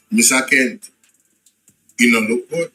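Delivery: ominous. Acted. Dramatic low verdict.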